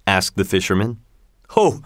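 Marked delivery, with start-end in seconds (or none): 1.5-1.8 high, brief genie exclamation; crying out. A narrator's reading. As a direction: cry it out high, without shouting. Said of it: "cried the genie".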